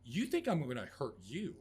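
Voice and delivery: loud, incredulous retold cry; pleading shout at someone cowering; anguished outburst.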